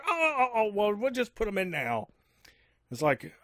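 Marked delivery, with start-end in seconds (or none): 0.1-2.1 eager Aussie voice. Retold or imitated. Friend quoted eagerly.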